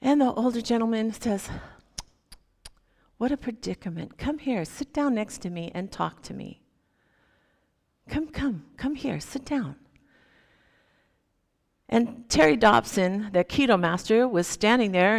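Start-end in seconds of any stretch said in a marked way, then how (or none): 3.2-9.8 put-on softer, gentle coaxing old man; tender comfort. Old man softly comforts the sobbing laborer beside him. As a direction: soothe him, invite him to sit.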